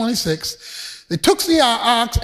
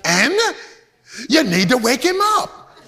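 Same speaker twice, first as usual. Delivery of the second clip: mocking taunt. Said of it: "He says".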